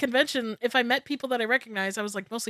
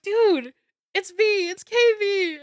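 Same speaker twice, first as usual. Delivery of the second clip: much higher, eager reintroduction; excited reunion; 10 semitones higher, 5 dB louder, slower than usual. Retold or imitated. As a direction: make him remember you, bursting. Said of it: "And I was like".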